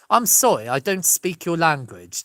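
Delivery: a light posh English accent; mild posh English delivery. Shown as a demonstration. Comic showing how an English person would say it, mild posh English accent. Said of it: "how an English person would say it".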